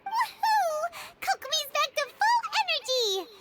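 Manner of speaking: high, loud delighted whoop; cheering. Acted. Companion cheers Kokomi's recovery, whooping happily. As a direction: celebrate with a bright whoop and laugh.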